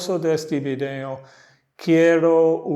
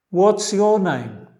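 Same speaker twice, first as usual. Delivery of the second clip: slow model line; 4 semitones higher, 5 dB louder than usual. Shown as a demonstration. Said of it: "repite los dos lados después a mí".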